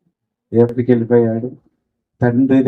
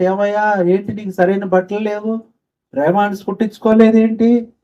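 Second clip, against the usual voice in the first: scornful question; 9 semitones higher than usual. Retold or imitated. Church people scorn poor man.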